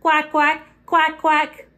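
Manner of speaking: lightly voiced duck quack; a hint of a quacking duck. Shown as a demonstration. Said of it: "Can you quack like a duck?".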